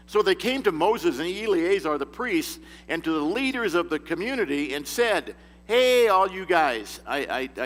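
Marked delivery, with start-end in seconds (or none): 5.7-7.0 slow, louder chummy greeting; casual paraphrase. Retold or imitated. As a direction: hail the leaders like buddies. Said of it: "I translate it that way".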